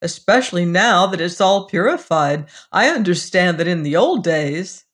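talking through a mouthful of apple; mouth full. Acted. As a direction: chew and talk at once. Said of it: "he continued through a full mouth".

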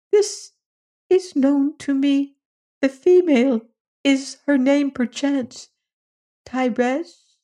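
very high squeaky question; a tiny creature hoping; eager little alien. Acted. Little alien asking about wife.

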